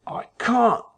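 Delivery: high, strained rising voice. Acted. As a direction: refuse with rising voice. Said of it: "his voice rising".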